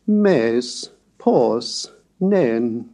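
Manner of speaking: "mes", "pos", "nen" each rising then falling in pitch; circumflex tone. Shown as a demonstration. Lecturer showing the circumflex, rising-falling syllables. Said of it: "like this".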